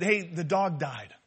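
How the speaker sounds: matter-of-fact, drawn-out bad news; blunt announcement. Husband reporting to his wife on the phone, blunt. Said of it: "just come out and say he died".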